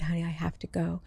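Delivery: soft whispered honey; tender whisper. Retold or imitated. Dead brother comforting his sister, tender whisper. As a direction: gently whisper farewell. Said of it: "he said".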